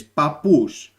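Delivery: papous, plain single p; papous said as a quick example; Greek word papous. Shown as a demonstration. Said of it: "we have an English word called".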